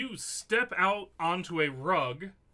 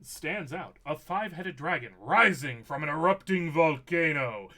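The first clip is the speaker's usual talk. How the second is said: game master narration. Acted. Game master reveals dragon carving to players, dramatic narration. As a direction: build to the dragon, then settle back.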